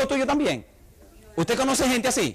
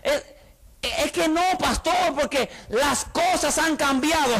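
whiny churchgoer; 6 semitones higher, slower than usual. Retold or imitated. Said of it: "hay gente que dice".

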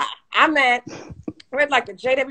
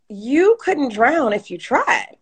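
drawn-out, slow, word by word, voicing the attendant; slow deliberate quote; much slower than usual. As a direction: spell it out slowly, as if to a child. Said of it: "She said".

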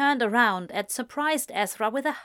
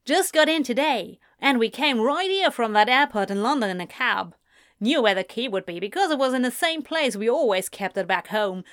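lightly voiced American woman, quick; a hint of chatty American mom; brisk, friendly American visitor; chatty American mother.

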